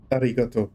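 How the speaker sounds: "arigato" with a tapped Japanese R; tip-of-tongue R. Shown as a demonstration. University Japanese lesson recalled, tapped R in "arigato". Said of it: "It's the tip of the tongue R".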